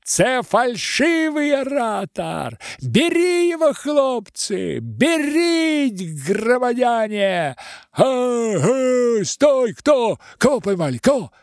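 very high, loud yelling; frantic crowd shouts. Acted. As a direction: raise the alarm. Crowd calls to seize.

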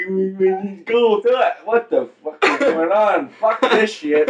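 snapping out of it. Acted. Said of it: "You're like".

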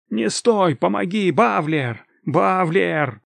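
громкий, высокий отчаянный зов; кричи, зовя на помощь; отчаянный крик о помощи. Acted. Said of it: "Последний крик". (громко и отчаянно кричит)

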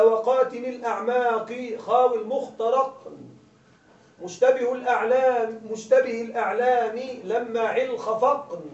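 slow, measured chanting of a verse; poem recitation. Acted. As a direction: lay out each word of the verse slowly like a reciter.

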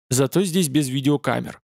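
ordinary delivery, nothing marked

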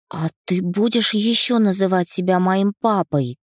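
put-on high, eager child voice; little girl voice. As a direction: ask like a curious little girl. Narrator voices little daughter.

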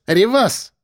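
put-on high-pitched drunken call to heel; lightly tipsy woman commanding him; tipsy order. A narrator's reading. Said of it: "пьяненько приказала Элла". (пьяненько, приказным тоном)

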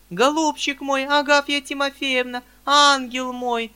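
frantic companion calling; alarmed cry. Acted. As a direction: cry out for the fainting lady. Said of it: "кричала Анфиса Петровна".

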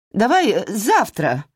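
high, shaky, breaking plea; barely holding it together. Acted. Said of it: "срывающимся голосом попросила она". (срывающимся голосом)

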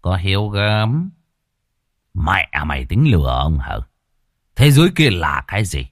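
scoff, then snap the question; sarcastic. Acted. Chief mocking the peasant's excuse, sarcastic.

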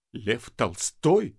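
slow, quavering words; husband near tears; trembling voice. Acted. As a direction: voice shaking with hurt. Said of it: "сказал Коля дрожащим голосом".

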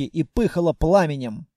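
plain reading voice

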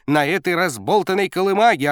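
high loud delighted yell; shouting coach. A narrator's reading. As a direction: roar it in disbelief. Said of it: "орал тренер".

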